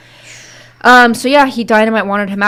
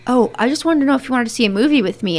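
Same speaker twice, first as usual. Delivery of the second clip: higher, fast, nervous-sounding invitation; mock bashful asking; 4 semitones higher, faster than usual. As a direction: imitate a smitten girl rushing the question. Mom shyly asks dad out.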